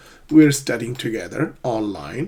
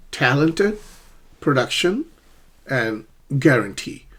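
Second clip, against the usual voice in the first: "Talented" on TAL, "production" on DUC, "guarantee" on TEE; stress pattern models. Shown as a demonstration. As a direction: rise on two words, fall on "guarantee". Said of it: "but I'll do it again".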